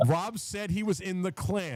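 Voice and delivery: high-pitched pretend exposé; mock accusation. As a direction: play someone pouncing on a confession. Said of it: "Somebody's gonna clip this and be like".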